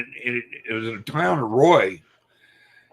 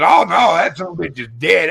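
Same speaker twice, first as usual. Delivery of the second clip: higher, loud imitation of a boy insisting; excited kid; 5 semitones higher, 3 dB louder than usual. Boy insists to his dad the animal is dead, excited. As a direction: exclaim like a thrilled kid.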